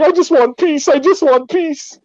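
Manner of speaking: high-pitched imitation of begging; mock pleading. Storyteller mimicking the man being beaten, mock high-pitched pleading.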